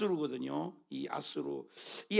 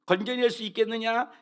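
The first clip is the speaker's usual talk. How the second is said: mild sneer; 5 semitones higher, 3 dB louder than usual. Acted. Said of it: "이렇게 깐죽거리는 거예요".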